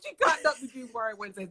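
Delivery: mock-dismayed outcry, quick; retold dismay. Guest retelling her reaction to a missed show, in mock dismay. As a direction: act out a hurried cry of disappointment. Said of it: "I was so sad when I saw".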